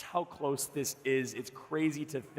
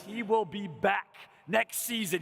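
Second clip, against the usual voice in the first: excited announcer; 5 semitones higher than usual. Real, not acted. Host hypes returning team.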